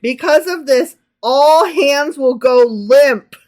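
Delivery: loud, high proclamation cracking into laughter; stretched verse breaking up in giggles; laughing while reading. Real, not acted. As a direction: declaim it while losing composure. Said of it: "This chapter is making me laugh".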